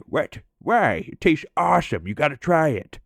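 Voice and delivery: imitating a stoner who loves his bong trick; excited Mike impression. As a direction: bounce up into a delighted Mike voice. Imitating Mike's enthusiasm.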